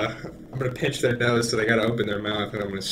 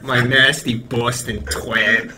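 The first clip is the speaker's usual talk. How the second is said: drawn-out, hammed-up Boston accent; exaggerated Boston local, slow; mock Boston accent; much slower than usual. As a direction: slowly relish a crude Boston accent. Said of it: "they're like".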